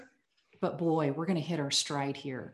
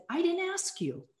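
stern border guard; 12 semitones higher than usual. Retold or imitated. Border guard snaps at mother.

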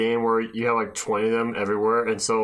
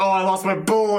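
higher-pitched infomercial mishap; nineties commercial actor; 9 semitones higher, 4 dB louder than usual. Acted. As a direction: act out a cheesy commercial blunder. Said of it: "like a nineties commercial".

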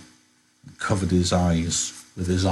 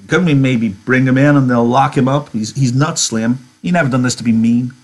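George begging Slim, pitched up and urgent; pleading George; 4 semitones higher, 3 dB louder than usual. Acted. George begs Slim to spare Lenny, urgent pleading. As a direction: plead for your friend's life.

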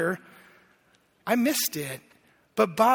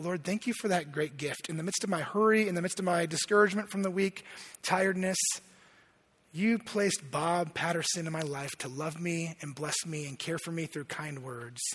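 soft, low retold prayer; thankful prayer; 3 semitones lower, 7 dB quieter than usual. Man alone in his car thanking God, hushed prayer. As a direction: pray it quietly, trailing softer and lower at the end.

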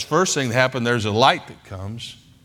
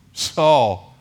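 voice of Jesus. Acted. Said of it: "Jesus calls him out".

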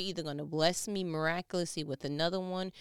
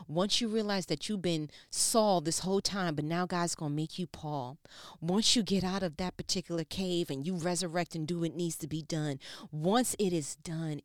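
louder, driving cadence; building preaching; 5 dB louder than usual. Acted. Preacher builds toward the revelation, louder. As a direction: build it up, louder each phrase.

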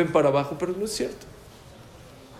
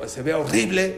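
mild annoyance; 5 semitones higher than usual. Retold or imitated. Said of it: "estaba enojado".

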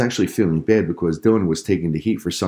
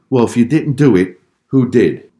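angry dad; 4 semitones higher, 6 dB louder than usual. A narrator's reading. Angry dad demanding answer.

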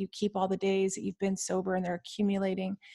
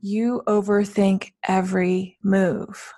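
droning teacher impression; 5 dB louder, much slower than usual. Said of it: "my professor was like".

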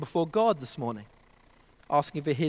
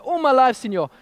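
put-on higher, louder Mexican accent on all my life; 6 semitones higher, 6 dB louder than usual. Fisherman repeating his answer in a fuller Mexican accent. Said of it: "this is a Mexican accent, by the way".

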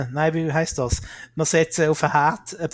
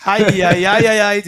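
mock scolding; 7 dB louder than usual. Scolding like a teacher.

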